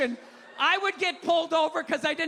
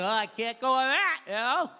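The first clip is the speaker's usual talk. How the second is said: timid rule-follower; 4 semitones lower than usual. Retold or imitated. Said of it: "They're like".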